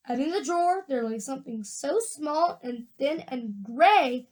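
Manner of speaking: lively, expressive read-aloud; story narration. A narrator's reading. Reader tells of Wonka's gum machine, animated storytelling. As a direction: tell the story with swooping emphasis on key words.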